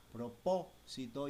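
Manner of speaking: "propósito" as pro-PÓ-si-to, PÓ stressed. Shown as a demonstration. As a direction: lean on the second syllable of "propósito". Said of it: "lleva el tilde en la O".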